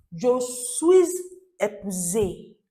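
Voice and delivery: "suis épuisé" linked with a z sound; liaison demonstration. Shown as a demonstration. Teacher introducing another phrase, "je suis épuisé" with clear liaison. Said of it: "There's a liaison".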